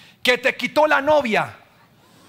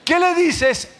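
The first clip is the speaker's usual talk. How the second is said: drawn-out question; 8 semitones higher, 3 dB louder, much slower than usual. Acted. Preacher quizzing the crowd.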